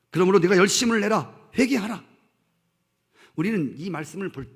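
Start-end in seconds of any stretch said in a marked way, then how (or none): 0.1-2.0 loud, forceful divine command; booming call to repent; commanding proclamation. Acted. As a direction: proclaim it like God's own rebuke. Voicing the Lord's command.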